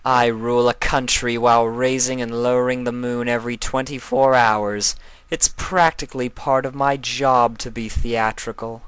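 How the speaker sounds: Nightmare Moon. Acted. Nightmare Moon defending her flair to Discord, a regal haughty voice. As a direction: play the haughty night queen.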